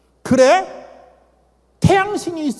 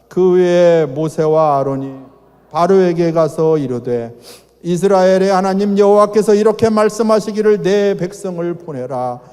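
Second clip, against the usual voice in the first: scripture reading; 4 dB louder than usual. Acted. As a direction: read the verse out like a pulpit lesson. Reads Exodus 5:1 aloud.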